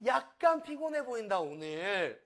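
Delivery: brightly noticing, then easing off; light model line. Shown as a demonstration. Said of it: "이렇게 말할 수 있고요". (처음은 높고 크게, 끝은 가볍게)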